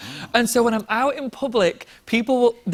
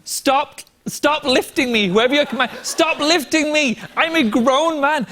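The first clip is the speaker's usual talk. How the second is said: raised, slowed, emphatic plea to stop; mock stern PSA; 7 semitones higher, 3 dB louder than usual. Real, not acted. Guest's public plea to fans, raised and slow. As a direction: lay down the law half-joking, slow and loud. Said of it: "Can I do a quick P S A?".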